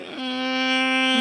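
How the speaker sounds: long, high held "mmm"; drawn-out doubtful hum before refusing; mock pondering. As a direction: hum as if weighing up an offer. Voicing a reluctant refusal.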